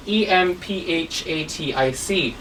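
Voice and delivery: E M P H A T I C spelt letter by letter, quiet; teacher spelling emphatic to the class. Shown as a demonstration. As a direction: spell it out one letter at a time. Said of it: "let's see the word emphatic first".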